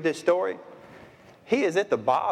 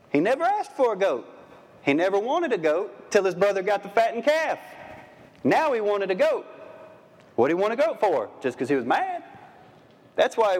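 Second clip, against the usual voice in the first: exasperated; 6 semitones higher than usual. Real, not acted. Preacher exasperated about the goat.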